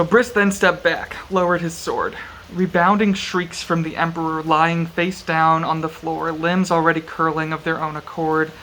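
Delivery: measured audiobook-style reading; story narration. A narrator's reading. Reading a brutal sword fight from the novel aloud, measured narration. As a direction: read it out evenly, with deliberate pauses.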